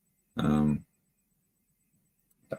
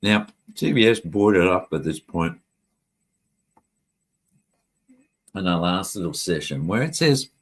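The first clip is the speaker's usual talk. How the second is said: talking while eating chips; words round a mouthful of chips; crunching chips. Real, not acted. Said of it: "'cause I'm eating chips".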